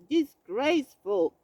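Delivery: loud, short bark; barked disgraceful. A narrator's reading. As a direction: bark it in outrage. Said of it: "barked Bear".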